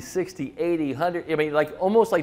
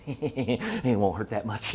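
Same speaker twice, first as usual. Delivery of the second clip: soothing mock reassurance; 5 semitones lower, 6 dB quieter, slower than usual. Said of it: "I was just like".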